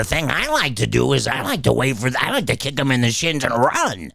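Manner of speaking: a hint of a cartoon pig reading a script line; Oolong. Shown as a demonstration. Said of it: "I do the voice".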